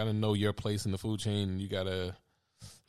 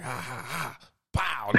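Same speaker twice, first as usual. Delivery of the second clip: mock sound effects; 3 semitones higher, slower than usual. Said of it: "do all these sound effects".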